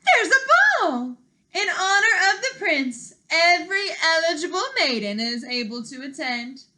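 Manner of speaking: very high, loud, gushing announcement; announcing stepmother. Acted. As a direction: proclaim it with shrill delight. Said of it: "stepmother announced".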